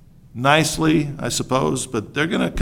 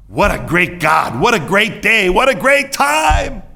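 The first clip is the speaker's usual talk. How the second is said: building gush of praise, climbing higher; hammed-up gratitude; mock rejoicing; 4 semitones higher than usual. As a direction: pile up the praise, rising each time. Imagined jubilant reaction, continued.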